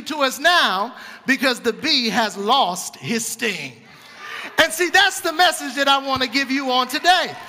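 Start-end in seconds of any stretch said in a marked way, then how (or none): 4.6-7.3 louder, rhythmic preaching with a shout on key lines; preaching at full force. Acted. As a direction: drive it home to the church, call and response. Easter sermon climax with congregation.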